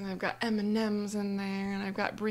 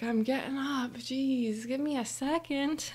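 mildly annoyed, pitched-up imitation; exasperated sister; 5 semitones higher than usual. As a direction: grumble back at a pestering sibling, acted. Acting sister being pestered awake.

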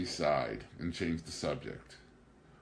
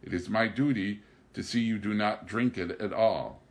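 sternly; 2 semitones higher, 5 dB louder than usual. Acted. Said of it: "Pilon answered him sternly".

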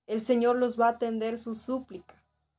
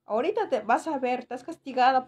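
mild mock scolding from a mother; a hint of an angry mum, retold; 2 semitones higher than usual. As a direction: lightly imitate a mum telling her daughter off. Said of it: "mi mamá me decía".

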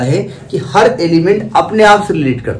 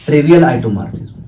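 slow dictation; 3 semitones lower, much slower than usual. Shown as a demonstration. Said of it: "dictating term".

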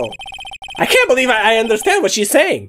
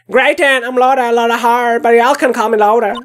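lightly voiced Southern woman. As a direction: play a country gal lightly, fussing. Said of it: "I'm having fun doing their voice".

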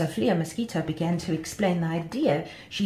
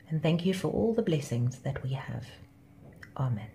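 prayer. Real, not acted. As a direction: pray simply on behalf of the listeners. Leads a closing prayer.

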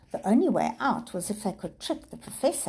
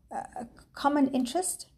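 startled repeat; 8 semitones higher, faster than usual. A narrator's reading. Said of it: "Peter repeated".

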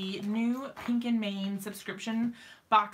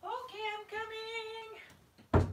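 calling from afar; 12 semitones higher, 5 dB quieter, much faster than usual. Real, not acted. Calling from down the hallway.

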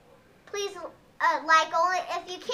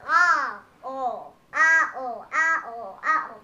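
other Yoshi voice; 5 semitones lower, slower than usual. Shown as a demonstration. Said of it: "that other one talks like".

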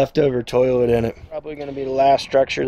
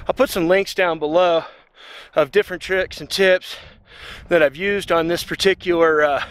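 panting from the uphill climb; breathless, winded words; out of breath; 4 semitones higher than usual. Real, not acted. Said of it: "I'm out of breath".

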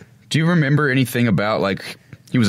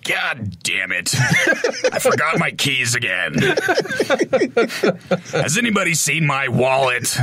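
a hint of a gruff, forgetful grump; lightly gruff, laughing through the complaints; half-hearted gruff grumbling; grumpy muttering guy; 5 semitones higher than usual. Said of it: "a more of a gruffy voice".

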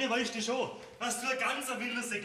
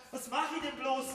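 jealous rant; 3 semitones higher than usual. Acted. Eifersüchtiger Bauer tobt.

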